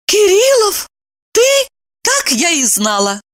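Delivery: very high, startled cry; shocked recognition. A narrator's reading. Evdokia recognizes Kirillov, startled and high. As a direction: she can't believe it's him.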